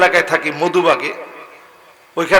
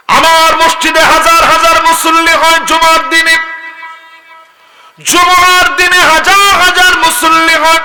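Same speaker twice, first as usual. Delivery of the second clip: high, loud level chant; full-force preaching; 12 semitones higher, 6 dB louder than usual. Real, not acted. Preacher recalling crowded Friday prayers, high full-force chant. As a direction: drive it out high, almost on one note.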